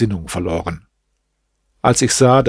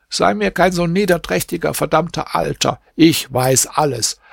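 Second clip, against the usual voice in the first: angry accusation; 3 semitones higher than usual. Acted. Barber accusing the Kadi in front of the crowd, a touch of heated anger. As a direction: scold him and threaten, pitched up.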